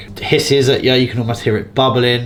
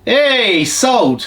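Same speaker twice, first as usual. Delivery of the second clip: high, falling cheer of success; celebratory exclamation; 10 semitones higher, 3 dB louder than usual. Real, not acted. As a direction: call out the good news, pitched up high. Celebrating a quick sale.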